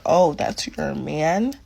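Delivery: low, slow disbelieving question; stunned echo. Retold or imitated. Woman learns server has her man, low stunned echo. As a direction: stretch it low, taking it in.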